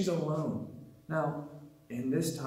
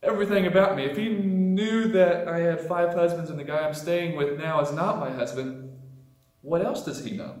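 awed disbelief. Retold or imitated. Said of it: "her heart stood still momentarily".

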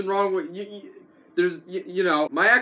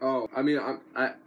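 quiet aside; 7 semitones lower, 7 dB quieter than usual. Real, not acted. Quiet aside, soft and low.

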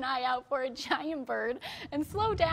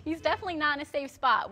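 stifling laughter. Real, not acted. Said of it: "I'm gonna try to get through this story".

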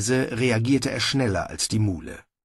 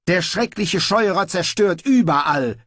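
high, urgent exclamation; calling out; 8 semitones higher, 4 dB louder than usual. A narrator's reading. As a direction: cry out a warning, pitched up. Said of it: "rief er". (aufgeregt gerufen)

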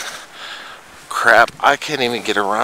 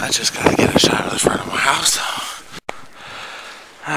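whisper. Real, not acted. Unvoiced whisper.

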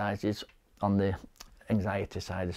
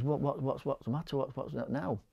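hushed concern; 4 semitones higher, 9 dB quieter than usual. Retold or imitated. Wakes to find wife crying.

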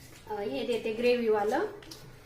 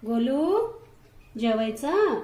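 raised calling voice, rising on the name; calling the cat; 5 dB louder, much slower than usual. Real, not acted. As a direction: call the cat over to eat. (मांजराला जेवायला हाक मारणे)

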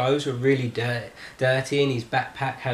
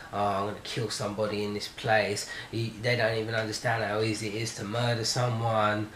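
low, quiet retold mutter; retold mumbling; 4 semitones lower, 6 dB quieter than usual. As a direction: mutter it under your breath. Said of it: "he was mumbling something".

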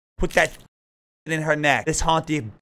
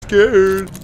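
scared yelp; 5 semitones higher, 11 dB louder, much slower than usual. Real, not acted. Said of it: "I'm scared".

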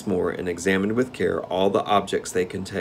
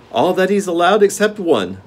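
Gnome King voice; 11 semitones higher, 7 dB louder than usual. Acted.

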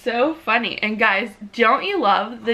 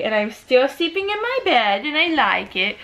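voicing the baby; 3 semitones higher than usual. Mother voices baby's words.

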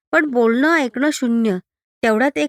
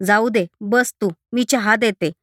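softened. Acted. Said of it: "ते थोड्या नरमल्या".

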